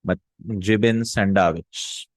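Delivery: jibin sandwich said slowly, jibin falling; slow model phrase. Shown as a demonstration. Teacher modelling the dialect word jibin. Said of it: "Well, jibin is jubna".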